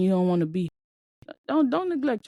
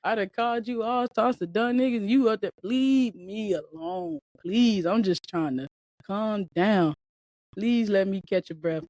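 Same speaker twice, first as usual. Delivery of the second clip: pleading parent. Retold or imitated. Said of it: "your parents sitting over there getting on".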